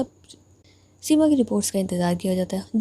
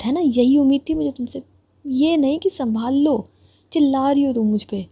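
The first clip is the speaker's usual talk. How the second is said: higher, heated reproach; indignant complaint; 3 semitones higher, 3 dB louder than usual. Acted. Injured girl reproaching her rival for yelling, indignant. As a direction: throw it back at her, hurt.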